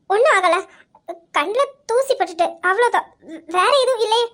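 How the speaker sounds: faltering excuse, close to tears; tearful denial. Acted. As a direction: insist nothing is wrong while crying. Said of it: "தார தாரையா கண்ணீர் ஊத்துது". (அழுகை கலந்த குரலில் சமாளித்து)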